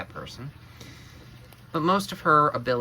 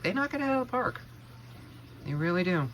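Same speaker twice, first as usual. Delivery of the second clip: high, enthusiastic emphasis; emphatic excited; 7 semitones higher, 3 dB quieter, faster than usual. Real, not acted. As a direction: punch it with enthusiasm. Emphatic payoff of the repeat.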